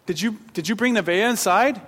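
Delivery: loud, high call across the house; yelling for wife. Retold or imitated. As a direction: call out urgently to your wife. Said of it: "I yell for my wife".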